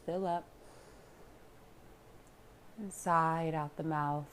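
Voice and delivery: unhurried calm guidance with long pauses; guided meditation. Real, not acted. Yoga teacher leading listeners into relaxation, calm meditation voice. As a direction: guide them inward, leaving room to breathe.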